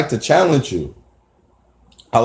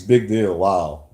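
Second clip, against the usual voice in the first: low, unimpressed deadpan; dismissive sarcasm; 5 semitones lower, 3 dB quieter, slower than usual. Real, not acted. Man dismissing two weeks of phone calls, sarcastic. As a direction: drop it low and soft, unimpressed.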